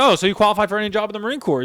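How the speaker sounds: teasing the high scorer with mock disbelief. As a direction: rattle it off in fake amazement. Incredulous retort to high scorer.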